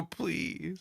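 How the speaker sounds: quiet imitation of begging; imitated pleading. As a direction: mimic a child's small, soft plea.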